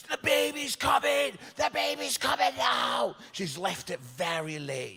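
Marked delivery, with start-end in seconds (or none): 0.1-3.2 high, loud mock labour cry; retold scream. Woman in labour crashing into hospital, high mock scream. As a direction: yell it like a panicking woman in labour. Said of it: "she's screaming".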